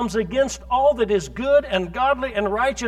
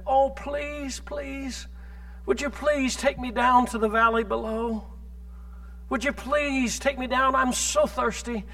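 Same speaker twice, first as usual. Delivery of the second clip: a soft, begging snake voice, much softer; pleading snake; 6 dB quieter than usual. Acted. Preacher voicing the snake begging the boy, soft pleading.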